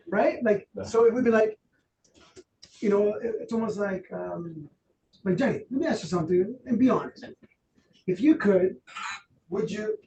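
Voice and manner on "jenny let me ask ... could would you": gently coaxing Jenny to be honest; soft gentle ask. Shown as a demonstration. Trainer demos asking Jenny kindly, soft and gentle. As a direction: ease the question out softly. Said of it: "The tone has to soften up".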